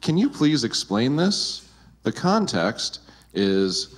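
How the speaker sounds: ordinary delivery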